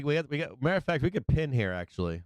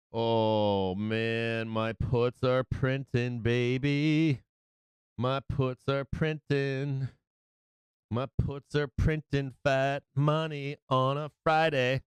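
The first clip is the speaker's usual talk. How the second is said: slow crowing gloat rising toward the end; slower than usual. Real, not acted. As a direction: savor every word, crowing about the win. Gloating over winning trades.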